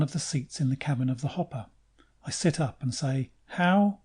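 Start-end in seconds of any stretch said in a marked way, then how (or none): 3.5-4.0 high, loud bewildered "How?"; sudden confused cry; startled question. Acted. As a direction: blurt it out, just waking and lost. Waking confused, asks.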